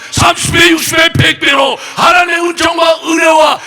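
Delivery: 높고 크게 몰아치는 설교 외침; 점점 더 힘껏 외치며 축복을 선포. Real, not acted. (목청을 높여 부르짖는 축원)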